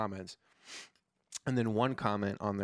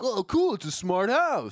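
excited; 9 semitones higher, 5 dB louder than usual. Retold or imitated. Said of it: "he's like".

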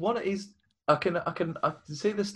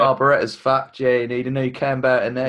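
mock Cockney mechanic. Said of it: "really Australian for a Cockney accent".

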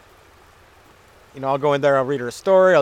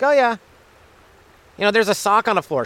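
mock girlfriend; 7 semitones higher, 4 dB louder than usual. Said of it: "Just like".

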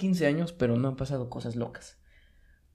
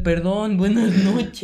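a raised, higher call of sorry; mock shouted apology; 5 semitones higher, 7 dB louder, much slower than usual. Boy calling sorry to the neighbor: raised voice. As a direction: call the apology out after him. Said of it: "yo no le alcancé a gritar".

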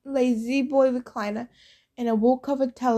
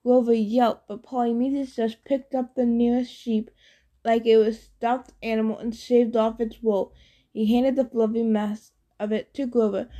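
plain reading voice

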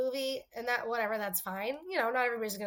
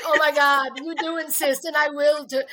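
excited reply; 3 semitones higher, 9 dB louder than usual. Retold or imitated. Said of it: "I'm like".

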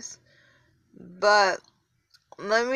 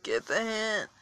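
exasperated; 4 semitones lower than usual. Retold or imitated. Podcaster retelling a pestering texter, exasperated and fed up. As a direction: drag it out like you're fed up. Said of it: "and I'm like".

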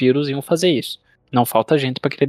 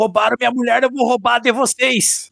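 high put-on villain voice; 10 semitones higher than usual. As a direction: voice him as a wronged villain. Voicing Dracula's motive.

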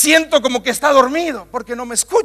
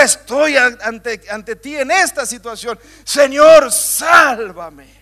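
pleading cry; slower than usual. Acted. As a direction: call out for rescue. Prayer voiced in the storm.

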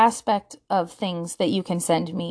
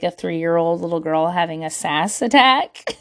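laughing; 6 semitones lower than usual. Real, not acted. Laughing at her own sassy stance.

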